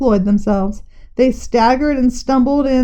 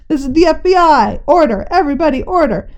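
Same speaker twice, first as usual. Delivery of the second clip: calling for order; 4 semitones higher than usual. Acted. Agent calling crowd to order.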